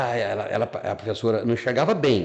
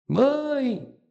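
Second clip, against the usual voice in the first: calling out. Retold or imitated. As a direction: shout for mom, overjoyed. Child calls mother after seeing. (chamando a mãe em voz alta)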